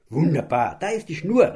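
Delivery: high, loud happy call; boy delighted, offering the rope; glad call. Acted. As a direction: call out happily. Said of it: "rief Bing".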